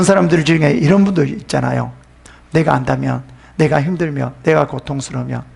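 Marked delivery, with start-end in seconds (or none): none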